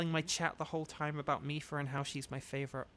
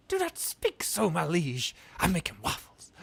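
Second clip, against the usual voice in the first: mock Donkey voice; goofy Eddie Murphy impression; 2 semitones higher, 5 dB louder than usual. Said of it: "it's still Eddie Murphy".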